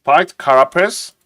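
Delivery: "Spiked carapace?" repeated with a rising, checking tune; checking the word. Shown as a demonstration. Streamer double-checking the spell name, a questioning repeat. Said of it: "Okay, let's listen".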